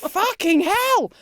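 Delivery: high, slow, loud mock outburst; drawn-out hammed-up curse; exasperated shout. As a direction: blurt it in disbelief. Her retold reaction to the booing.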